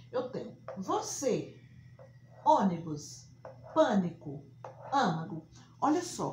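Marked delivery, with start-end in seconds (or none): 2.4-5.5 ônibus, pânico, âmago loud with closed stressed vowel. Shown as a demonstration. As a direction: say each word with a closed, nasal first vowel. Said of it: "som fechado". (vogal fechada em ônibus, pânico, âmago)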